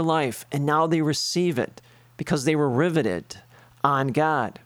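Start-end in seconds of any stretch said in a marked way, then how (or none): 3.8-4.6 whispered emphasis. Real, not acted. Preacher to congregation, whispering the key words. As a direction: drop to a breathy whisper on the last words.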